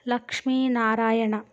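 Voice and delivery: లక్ష్మీనారాయణ drawn out slowly, syllable by syllable; slowly pieced together. Acted. Reading her moving lips, the narrator spells out లక్ష్మీనారాయణ slowly. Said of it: "ఒక్కో అక్షరాన్ని కలుపుకోసాగాను".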